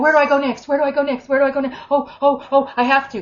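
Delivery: a little mouse scurrying around; anxious scrounging seeker. Retold or imitated. To Lizzie, mocking a lost evangelist, frantic worry. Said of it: "looking like".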